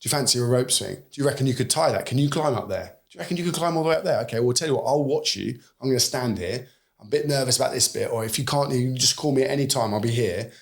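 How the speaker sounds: lightly voiced, gently encouraging father; encouraging dad. Father coaching his son up a rope swing, mildly encouraging. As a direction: coax the child up the rope swing, easy and supportive. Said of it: "that middle ground of saying".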